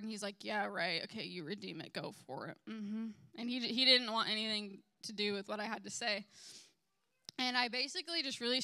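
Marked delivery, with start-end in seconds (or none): 0.4-2.6 imitating a hard guy's scoff, dropping lower and softer; rude, dismissive. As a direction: brush them off with mock agreement, voice sinking. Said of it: "he's super rude, super hard".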